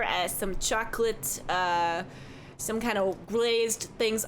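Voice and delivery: lightly voiced chatty Midwestern barkeep; cheerful innkeeper who says don't you know; folksy bartender. Bartender describing hot dish.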